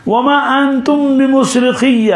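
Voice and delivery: high, very slow recited verse; Quran recitation. Acted. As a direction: chant the verse slowly and up high.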